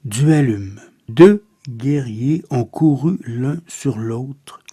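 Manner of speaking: measured, subdued poem reading with pauses; solemn, restrained verse reading; poetry recitation. Acted. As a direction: recite verse softly and evenly, letting each line settle.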